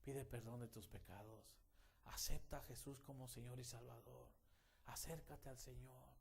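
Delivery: gentle invitation. Shown as a demonstration. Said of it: "Compartir ese evangelio y decirle".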